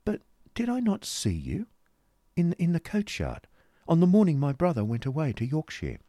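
put-on very high, curious young lady; hesitant, high-pitched polite question; Kate. Kate questions Newman in story.

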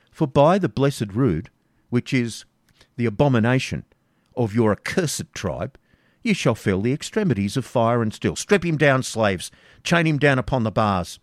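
furious order. Acted. Baron ordering slaves to chain the Jew, furious. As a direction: order the torture.

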